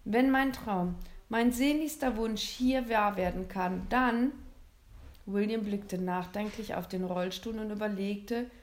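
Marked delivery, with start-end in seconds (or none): 0.0-4.3 put-on a bit higher, hopeful young boy; lightly voiced boy. William telling Santa his dearest wish, higher and hopeful. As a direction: lift the voice like an eager child.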